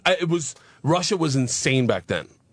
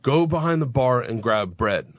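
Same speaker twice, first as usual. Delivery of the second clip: slow, deliberate imitation of a Russian gangster; mock gangster giving slow orders; Big Igor; slower than usual. Russian gangster orders a student behind the bar, slow mock command. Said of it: "Big Igor's like".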